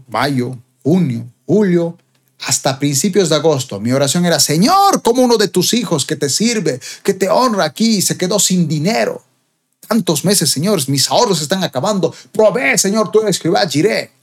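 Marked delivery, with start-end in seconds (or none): 4.4-14.1 raised, pleading prayer to the Lord; crying out to God. Retold or imitated. Out of savings, he begs God in prayer, pleading. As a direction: beg God to provide, voice lifted high.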